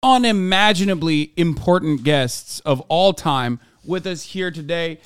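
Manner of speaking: hammed-up host intro; big show-host welcome; podcast intro.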